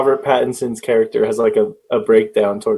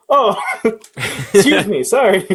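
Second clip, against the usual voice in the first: grandma's fake apology; 9 semitones higher than usual. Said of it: "she'll just turn around and be like".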